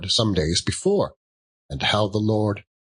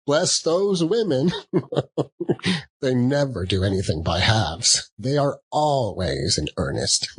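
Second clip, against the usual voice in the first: laughing; 4 semitones higher than usual. Acted. Nephew laughing at the women.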